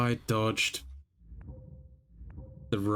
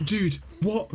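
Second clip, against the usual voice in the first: shocked laugh; 9 semitones higher than usual. Real, not acted. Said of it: "that jump scared me so hard".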